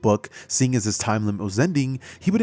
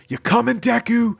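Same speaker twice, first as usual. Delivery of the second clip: high, raised call; yelling; 11 semitones higher, 4 dB louder than usual. Acted. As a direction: call back while blasting off. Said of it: "yelling out".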